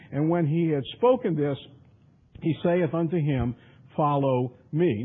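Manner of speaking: measured, emphatic King James declamation; scripture reading. Acted. Reads scripture aloud.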